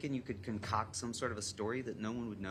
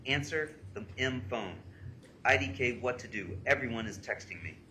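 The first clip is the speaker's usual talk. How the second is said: loud, heated reading of texts; punchy read-aloud of frantic messages; emphatic reading; 3 semitones higher, 5 dB louder than usual. Retold or imitated. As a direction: read her angry texts out forcefully. Reads girl's frantic texts aloud.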